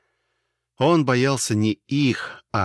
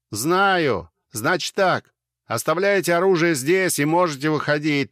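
yelling over helicopter; 6 semitones higher than usual. A narrator's reading. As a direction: shout orders over the rotor noise. Officer yelling over running rotors. (крик сквозь шум винтов)

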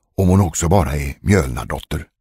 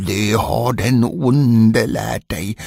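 mild fury; 3 semitones higher, much slower than usual. Acted. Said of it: "blev mannen rasande".

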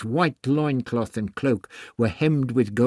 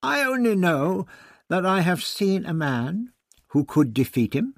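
raised, higher protest; 8 semitones higher, 4 dB louder than usual. A narrator's reading.

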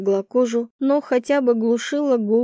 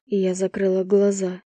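plain reading voice

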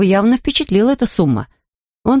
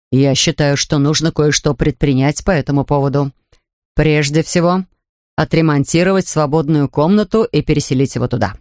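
lightly lowered voice of Mr Brown, hurried; a hint of a flustered father correcting himself; hasty Mr Brown; 4 semitones lower than usual. Father of the family hurriedly corrects himself, lightly voiced. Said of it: "поспешно поправился".

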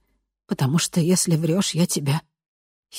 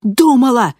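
loud, much higher shout; крик в ответ; shouted back; 9 semitones higher, 10 dB louder than usual. A narrator's reading. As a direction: yell it right back. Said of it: "прокричала в ответ Ранит".

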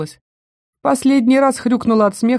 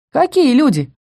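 naive surprise; 6 semitones higher than usual. A narrator's reading. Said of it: "наивно удивилась Эльза".

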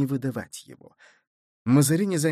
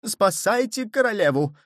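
much higher, urgent cry; panicked cry; 8 semitones higher than usual. A narrator's reading. Cardinal crying to the coadjutor to save the queen. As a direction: shout for help in panic. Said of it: "воскликнул кардинал".

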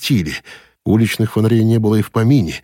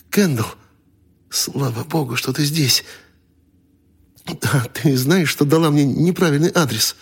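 voiced man; 7 semitones higher than usual. A narrator's reading.

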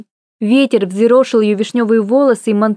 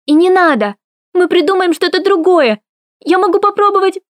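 crying out through tears; 8 semitones higher than usual. A narrator's reading. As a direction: shout it, nearly sobbing. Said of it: "закричала сквозь слёзы".

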